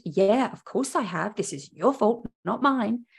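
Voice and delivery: lightly sassy mock retort; a touch of acted defiance; with attitude. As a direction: push the blame back with some attitude. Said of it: "with a very much of an attitude".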